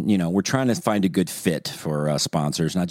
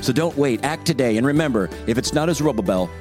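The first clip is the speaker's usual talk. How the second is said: upbeat radio ad voice; ad read. Shown as a demonstration. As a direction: sell it like a commercial announcer. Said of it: "I'm just gonna do a dry read here".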